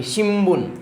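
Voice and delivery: शिम्बुन said with a clear sh and m, shim-bun; shimbun with sh. Shown as a demonstration. Teacher modelling शिम्बुन with a clear sh. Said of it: "वो sound आना चाहिए".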